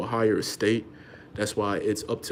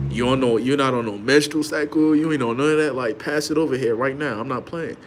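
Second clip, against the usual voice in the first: demanding man of the house; 2 semitones higher than usual. Retold or imitated. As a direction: lay down the law at home. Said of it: "Instead of the dude knowing".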